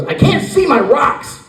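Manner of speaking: put-on high, slow little-girl whine; imitating a little girl. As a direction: whine it like a small child, pitched well up. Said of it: "And she goes".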